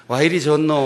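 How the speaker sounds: lively Gyeongsang dialect exclamation. Shown as a demonstration. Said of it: "경상도 말로도 해줍시다".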